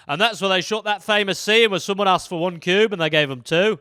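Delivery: a lightly voiced tour guide; proud tour guide patter. Guide on the set tour, lightly voiced. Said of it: "they'd be like".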